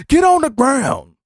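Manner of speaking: high, drawn-out repeat of the order. Retold or imitated. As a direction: stretch the command out, still high. Police arrest outside, shouting.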